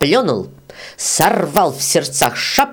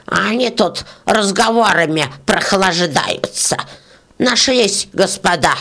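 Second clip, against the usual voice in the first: put-on angry old beetle; 4 semitones higher than usual. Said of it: "зашипела жужелица".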